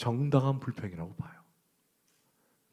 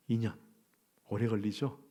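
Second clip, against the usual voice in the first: usual speaking voice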